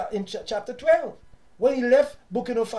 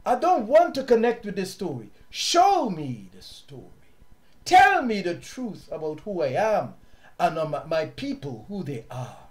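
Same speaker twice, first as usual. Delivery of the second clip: modelled prayer; 3 semitones lower than usual. Shown as a demonstration. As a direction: lay it down in prayer, unhurried.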